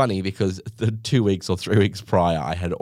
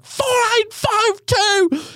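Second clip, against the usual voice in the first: much higher, slow screamed order number; 4 dB louder, much slower than usual. Retold or imitated. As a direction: bellow the number across the shop. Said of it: "screams at the top of his lungs".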